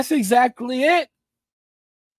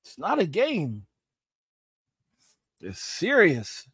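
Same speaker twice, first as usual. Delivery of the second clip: grave and quiet; 6 semitones lower, 9 dB quieter, slower than usual. Real, not acted. Turns grave after rant.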